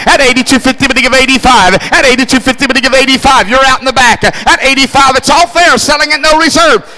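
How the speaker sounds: fast rhythmic bid-calling chant; auctioneer. Acted. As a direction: rattle off the bids like an auctioneer. Auctioneer calling golf cart bids.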